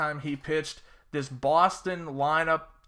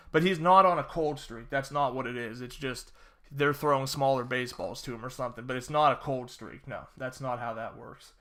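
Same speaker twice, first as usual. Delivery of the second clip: dry sarcastic denial; sarcastic, mock-serious; 3 semitones lower than usual. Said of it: "that was a blink because I'm being sarcastic".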